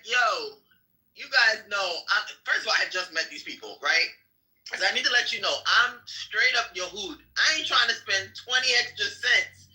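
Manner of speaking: retelling own joking reply. Retold or imitated. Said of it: "And I'm like".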